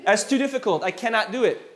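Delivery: high, emphatic imitation of refusing; mock horrified refusal. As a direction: voice someone's panicked "no way" reaction. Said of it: "did everybody notice her face".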